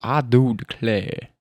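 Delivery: slow, lightly put-on drawl; attempted drawl accent. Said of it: "I don't do accents".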